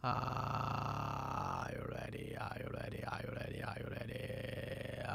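slow creaky fry; vocal fry. Shown as a demonstration. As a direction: crackle each word in fry. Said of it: "你看我还跟用这个气泡音说话".

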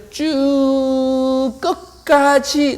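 high, sustained, slowly stretched "쭉"; drawn-out emphasis. Shown as a demonstration. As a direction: stretch "쭉" high, all the way to the end. 끝까지 나아가는 이미지 표현. ("쭉"을 높고 길게 끌기)

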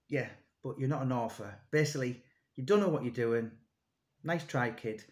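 mock the know-it-all with a glass of wine, low and soft; dismissive put-down. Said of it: "he was just like".

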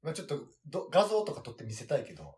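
talking around a cigarette; smoking while speaking, half lying down; cigarette in mouth. Real, not acted. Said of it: "タバコ吸いながら喋ってるからね".

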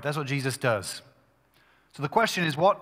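ordinary delivery

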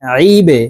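আইবে with the b released in a downward echo; downward qalqalah bounce. Shown as a demonstration. Teacher demonstrating qalqalah on ba, আইবে bounced downward. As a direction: push and bounce the b ending আইবে. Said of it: "নিচের দিকে ধাবিত করে ধাক্কা দিয়ে উচ্চারণ করব".

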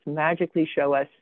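dry sarcasm on the magic; sarcastic. Real, not acted. Presenter mocking the team's hope of clusters appearing, sarcastic. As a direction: say it with knowing sarcasm. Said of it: "you can hear from my sarcasm".

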